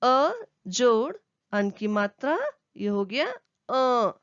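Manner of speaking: अ drawn out slowly as a nasal अँ; slow teacher drawing out the nasal अँ; nasal sound demo. Shown as a demonstration. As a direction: stretch अ long and nasal. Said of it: "completely नाक से".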